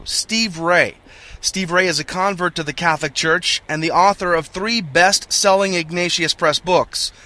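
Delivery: upbeat announcer read of guest bio; radio host intro. Real, not acted. Host reads formal guest intro.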